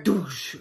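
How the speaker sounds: vocal boom of a bear on a boat; imitated metallic thud. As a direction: mimic the clang with your mouth. Imitating bear landing on aluminum boat.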